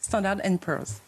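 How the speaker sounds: Standard and Poor's à l'anglaise, posé et lent; accent anglais. Shown as a demonstration. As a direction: redire Standard and Poor's avec l'accent anglais, lentement. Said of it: "Attendez, une petite dernière fois". (accent anglais, lentement)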